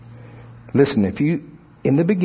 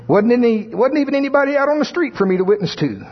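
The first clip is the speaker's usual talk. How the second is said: frustrated church member; 10 semitones higher than usual. Retold or imitated. Church member complains about empty shop.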